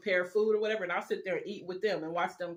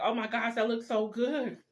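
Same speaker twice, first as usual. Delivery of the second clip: excited; 4 semitones higher than usual. Retold or imitated. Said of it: "I'm like".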